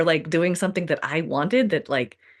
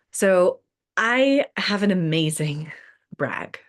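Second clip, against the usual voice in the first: whispered with a giggle, slow; conspiratorial whisper; slower than usual. Real, not acted. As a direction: whisper it like a juicy secret. Teasing her big brag.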